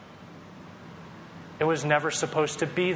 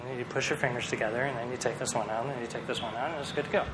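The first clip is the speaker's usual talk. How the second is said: softer, quick calm instruction; lightly voiced calm mother; calm mom; 3 semitones lower, 6 dB quieter, faster than usual. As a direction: explain gently like a patient mom. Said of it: "She's like".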